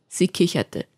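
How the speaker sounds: plain reading voice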